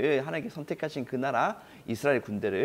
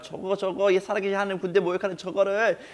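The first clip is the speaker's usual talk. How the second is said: raised, fierce vow to strike the enemy down; defiant shout; 6 semitones higher, 4 dB louder than usual. Acted. David vowing to strike down Goliath, defiant shout. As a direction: shout it as a boy's bold vow. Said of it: "이런 식으로 막 이렇게 외치고".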